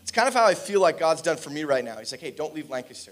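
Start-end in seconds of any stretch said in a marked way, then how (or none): 2.2-3.1 low, hushed imagined voice of God; quiet instruction. Retold or imitated. The Lord telling the preacher to stay, quiet instruction. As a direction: drop pitch and volume, a private nudge.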